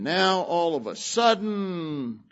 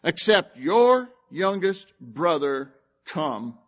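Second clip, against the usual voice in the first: louder, slow solemn oath; scripture reading; 4 dB louder, slower than usual. Acted. Preacher reading Joseph's oath to the brothers, a slow solemn declaration. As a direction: declare it like a royal vow.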